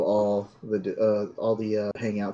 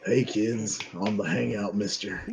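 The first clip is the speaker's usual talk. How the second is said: Tom Hardy voice. Retold or imitated. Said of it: "It's my Tom Hardy Shadow impression".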